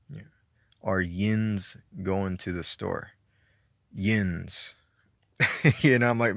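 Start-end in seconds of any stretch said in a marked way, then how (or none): 0.8-4.7 slow, "yins" drawn out as the key word; stressing yins. Shown as a demonstration. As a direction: slowly spell out "yins" as "yinz".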